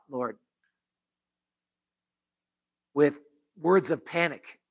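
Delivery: earnest spoken prayer, pleading at moments; closing prayer voiced over the church; pastoral prayer. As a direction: pray it aloud for the congregation.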